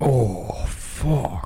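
sultry, dropped-down, deep, sensual voice. Recording a voice sample of one swear word: sensual. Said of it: "That was a little more sensual".

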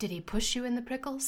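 quiet, grave, dead-serious hushed tone. Retelling one man questioning a boy, imitating a quiet serious question. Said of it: "this one guy goes just quietly, like he's asking him something so serious".

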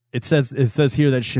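ordinary talk

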